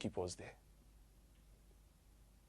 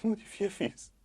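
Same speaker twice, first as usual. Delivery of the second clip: high furious shout; 12 semitones higher, 4 dB louder than usual. Acted. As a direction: repeat it higher and harsher. Repeated, higher and harsher.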